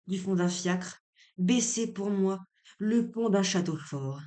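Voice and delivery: measured, carefully phrased literary reading; lightly declaimed stage monologue; dramatic monologue reading. Acted. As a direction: read Figaro's monologue aloud with deliberate phrasing. Reads a play monologue aloud.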